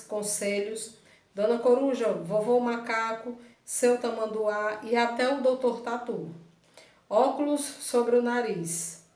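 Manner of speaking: measured classroom story reading; read-aloud story. Real, not acted. Teacher reading the book's text to pupils, measured read-aloud. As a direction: read it out steadily, pausing between phrases.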